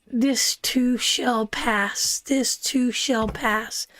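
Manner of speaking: slow, soothing and deliberate; slow comfort. Real, not acted. Reader slowly soothing a struggling viewer, calm. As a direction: lay each word down gently.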